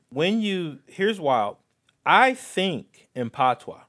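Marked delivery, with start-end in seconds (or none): 2.0-3.8 slow, drawn-out "I think in Patois" in a Jamaican lilt; Jamaican Patois accent. Shown as a demonstration. Son showing how he thinks in his mom's Patois, Jamaican accent. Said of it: "it's the Jamaican dialect".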